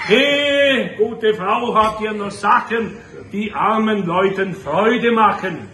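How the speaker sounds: high, drawn-out call on the first word; storybook visitor calling out in verse; Knecht Ruprecht hailing. Acted. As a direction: hail someone from a sleigh outside. Voices Knecht Ruprecht in poem.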